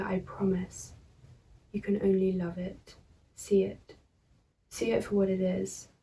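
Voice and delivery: measured poem reading with pauses; poetry reading. Acted. Poet reading own verse to viewers, measured poetry reading. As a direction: read the verse evenly, pausing between phrases.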